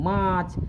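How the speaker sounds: मार्च as maach, with no r; मार्च said English style, r left off; right way. Shown as a demonstration. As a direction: drop the r in मार्च. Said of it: "मार्च नहीं बोलेंगे, क्या बोलेंगे".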